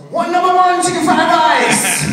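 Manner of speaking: high, slow yelled mock accent; mock Asian accent shout. GPS voice calling out an order. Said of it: "it goes".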